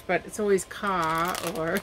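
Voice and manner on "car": "ka" with the R dropped, a Boston-style car; Boston accent. Shown as a demonstration. Explaining her childhood speech impediment, Boston accent, "ka". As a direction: say "ka" for car, no R at all. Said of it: "they don't say their R's".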